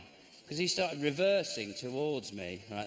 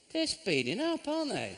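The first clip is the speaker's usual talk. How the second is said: anxious doubt; 10 semitones higher than usual. Retold or imitated. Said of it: "you think".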